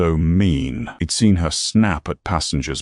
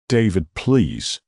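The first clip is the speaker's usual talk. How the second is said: rising panic; 4 semitones higher, slower than usual. Acted. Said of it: "panic entering his voice".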